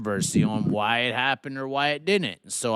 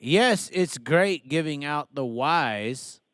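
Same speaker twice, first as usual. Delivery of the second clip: put-on light Australian accent; 2 semitones higher, slower than usual. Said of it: "Say it in an Australian accent".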